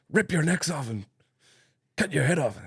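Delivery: high mock Canadian movie quote; mock Canadian accent. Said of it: "what do they say in Anchorman two?".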